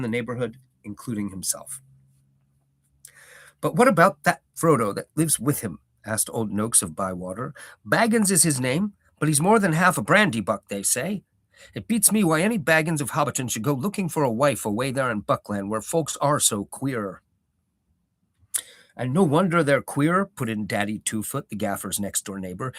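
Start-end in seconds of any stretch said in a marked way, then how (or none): 3.6-5.8 lightly voiced gossiping old hobbit; a hint of a nosy villager; old Noakes. 7.9-17.2 lightly voiced gossiping old hobbit; a hint of a nosy villager; old Noakes. 18.9-20.3 lightly voiced grumbling neighbour; a touch of a gruff old neighbour; Daddy Two-Foot.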